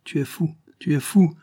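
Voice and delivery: put-on high, loud, incredulous old man; scornful disbelief, pitched well up; scornful outburst. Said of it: "partit d'un rire nerveux et haussa les épaules".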